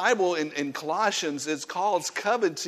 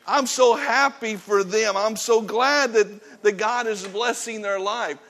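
glad blessing; 5 semitones higher than usual. Pretend. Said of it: "you ought to say".

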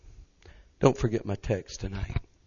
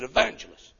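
Brother Burton's way of talking; 3 semitones higher than usual. Retold or imitated. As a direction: address him in a heavy, deliberate voice. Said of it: "That's the way he talks".

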